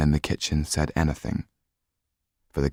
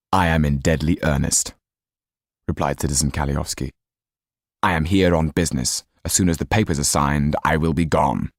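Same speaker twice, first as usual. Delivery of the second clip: cold sneering count; 4 semitones lower than usual. Acted. Count scolding the Marquis, low and coldly mocking. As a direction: talk down to him, icy and low.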